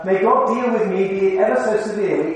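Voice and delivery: solemn oath formula. Shown as a demonstration. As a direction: proclaim it like a solemn vow. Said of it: "phrases that, like this".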